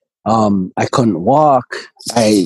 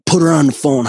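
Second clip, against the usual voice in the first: higher, louder, bossy demand; retold demanding order, pushed harder; 5 semitones higher, 4 dB louder, faster than usual. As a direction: bark it like an entitled father. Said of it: "demanding and wanting to control situations".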